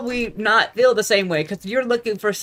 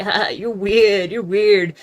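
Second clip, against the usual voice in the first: mock nonchalant; 4 dB louder, much slower than usual. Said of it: "play nonchalant and be like".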